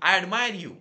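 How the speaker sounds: high, very loud shout; screamed call. A narrator's reading. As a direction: yell it out toward the mountain. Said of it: "चिरकला". (डोंगराकडे चिरकून)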